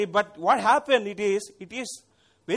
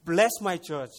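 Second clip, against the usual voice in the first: fervent pleading prayer; 3 semitones higher, 5 dB louder than usual. Retold or imitated. Model pastor pleading aloud with the Lord for his church. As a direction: cry out to God for a straying church. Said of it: "I can guess like this".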